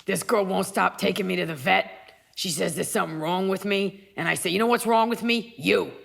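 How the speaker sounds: lightly voiced grumbling cat; a hint of a streetwise cat; Gracie. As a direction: play a put-upon pet complaining about its owner. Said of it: "What voice would you give Emily's cat".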